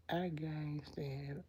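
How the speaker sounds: breathy whispered aside. Real, not acted. Confessing to Teresa, whispered. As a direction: drop to a whisper.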